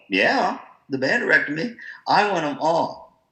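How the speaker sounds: hammed-up confident bragging; mock proud boast. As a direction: own it like a cocky band director. Retells proud admission.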